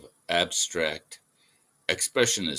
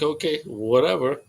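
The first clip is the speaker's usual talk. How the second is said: dismissive; 7 semitones higher, 4 dB louder than usual. Retold or imitated. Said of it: "I was just like".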